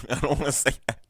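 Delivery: high, loud whiny refusal through laughter; whiny mock Connell. Connell refusing Marianne's request, in a hammed-up high whine. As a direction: squeal it like a sulky boy refusing. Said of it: "And Connor's like".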